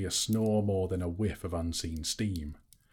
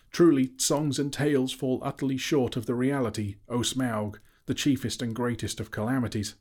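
higher, louder fawning hobbit; flattering Bilbo; 6 semitones higher, 5 dB louder than usual. A narrator's reading. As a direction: lay the flattery on thick. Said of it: "replied Bilbo".

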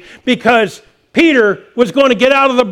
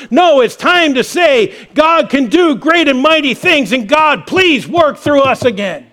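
rising, shouted call to the church; fiery pulpit shout, real passion; passionate preaching; 4 semitones higher than usual. Real, not acted. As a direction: preach it out at full force. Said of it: "I am passionate this morning".

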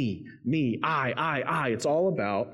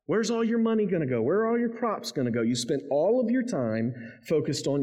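rising preaching challenge; 5 semitones higher than usual. Acted.

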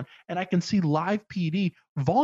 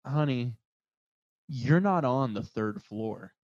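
mildly soothing clerk; 3 semitones lower, slower than usual. Retold or imitated. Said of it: "she looks at me and she goes".

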